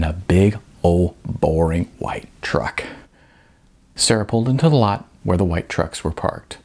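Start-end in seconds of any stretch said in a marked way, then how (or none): 0.0-2.8 dreamy whisper. A narrator's reading. Narrator savors loving the truck.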